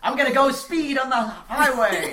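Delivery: loud, slow, laughing boast; laughing joke. Pretend. Joking loud announcement.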